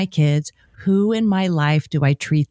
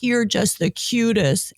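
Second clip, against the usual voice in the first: cooing at the dog; 4 semitones higher, slower than usual. Retold or imitated. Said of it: "my husband's voice and he was like".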